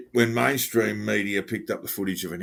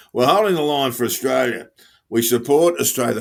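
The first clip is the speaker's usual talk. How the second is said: lightly voiced earnest protester, a bit louder; mock the rally chant; imitating protester; 3 semitones higher, 5 dB louder than usual. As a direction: protester declaring support, mildly imitated. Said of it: "Another one said".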